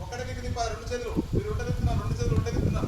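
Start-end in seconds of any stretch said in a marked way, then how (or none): 1.3-2.9 louder correction. Real, not acted. Teacher correcting students' arm rotation.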